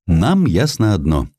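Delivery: ordinary delivery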